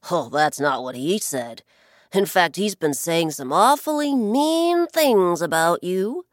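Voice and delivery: a hint of a sly bird leaning in with a secret; sly blackbird. Blackbird baiting the ocean with gossip, loud and sly.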